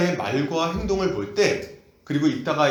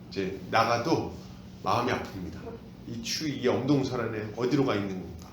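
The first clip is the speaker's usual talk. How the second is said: tender grief; 5 semitones lower, 7 dB quieter than usual. Acted. God's grieving heart.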